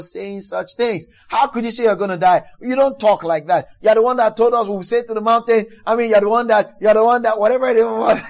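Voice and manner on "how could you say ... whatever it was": lightly acted scolding, pitch rising; mock reprimand. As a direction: take him to task, half in jest. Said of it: "began to reprimand him for".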